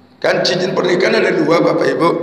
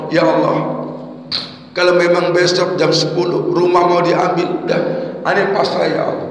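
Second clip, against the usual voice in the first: a low, hushed plea to God, giving up; quiet surrendering prayer; 3 semitones lower than usual. Retold or imitated. Man prays quietly at night, ready to lose his house. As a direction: murmur it like a man who has stopped fighting. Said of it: "Dia bilang sama Allah".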